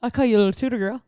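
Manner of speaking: Erin O'Pree. Pretend. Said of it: "I kinda sounded like Erin O'Pree".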